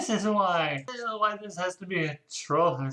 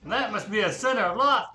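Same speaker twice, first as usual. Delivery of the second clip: mock yell; 6 semitones higher, 3 dB louder, faster than usual. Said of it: "I yelled without any quotations".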